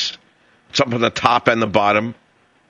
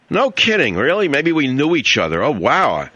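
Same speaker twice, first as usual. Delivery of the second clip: mock excitement; 5 semitones higher than usual. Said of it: "I love that".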